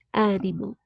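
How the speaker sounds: "animal" stressed on an open first a; open first vowel. Shown as a demonstration. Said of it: "the vowel is pronounced".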